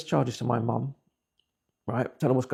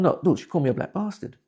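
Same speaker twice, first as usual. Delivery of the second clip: retold crying; 5 semitones higher than usual. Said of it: "This time I'm crying now".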